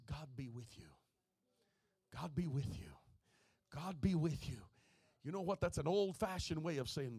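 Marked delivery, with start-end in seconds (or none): 0.1-4.7 gentle blessing. Shown as a demonstration.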